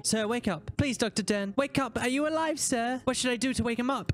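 put-on high, pleading girl voice; voicing young Fran. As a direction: play the frightened little girl.

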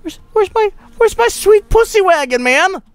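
very high mock-distraught squeal; falsetto wail. Player who lost the beloved car, falsetto wail.

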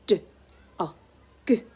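d, o, g said one by one; segmented sounds. Shown as a demonstration. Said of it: "I'll show you another example".

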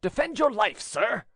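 the duke challenges the Chevalier; sword challenge. A narrator's reading. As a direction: call him out to fight. Duke's challenge.

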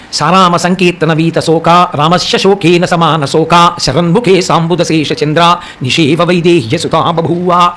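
slow, measured Sanskrit shloka chant; verse recitation. Acted. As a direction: intone the verse slowly, syllable by syllable. (నెమ్మదిగా శ్లోక పఠనం)

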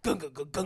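rhythmic gung-gung noise; steady throaty gung beat; chanted "gung" beat. Shown as a demonstration. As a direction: demo a short repeating pulse. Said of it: "You have to go".

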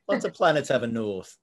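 lightly put-on northern English accent; Doctor Who line in a light Yorkshire accent; imitated Yorkshire accent. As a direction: quote it with a hint of Yorkshire. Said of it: "there's a Yorkshire on Gallifrey".

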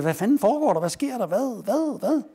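panicked retold outcry, pitch rising; retold howling. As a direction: howl it out like a man just hit in the finger. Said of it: "han hyler op og siger".

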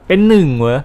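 questioning repeat, pushed on หนึ่ง; puzzled echo question. Real, not acted. Streamer doubting the mission text he just read, mildly surprised. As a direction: query it in mild surprise.

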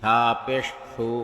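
final "সু" cut short; quick short vowel. Shown as a demonstration. Teacher demonstrating normal pesh, short "সু". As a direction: keep the last "সু" brief, not held. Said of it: "তাড়াতাড়ি করতে হয়".

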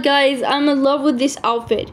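drawn-out, adoring gush; slow dreamy outfit love; gushing slowly. Real, not acted. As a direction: stretch every word in delight. Gushing over her outfit.

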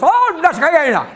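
loud, high mock wail; hammed-up outcry; imitated joke cry. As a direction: holler the punchline in a put-on high voice. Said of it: "one of the guys, of course".

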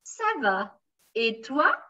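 "toi" lifted at the end; teacher modelling a rise on "toi"; rising question tune. Shown as a demonstration. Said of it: "you have to raise again the voice".

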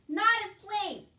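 high, loud, drawn-out bellow; slow emphatic shout. A narrator's reading. Soldier correcting deaf Meg about her status, shouting. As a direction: hammer it home at full volume. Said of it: "shouted the soldier".

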